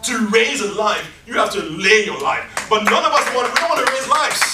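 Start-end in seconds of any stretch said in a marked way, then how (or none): 0.0-2.7 P=A; louder emphatic repeat. Real, not acted. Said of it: "repeated for emphasis".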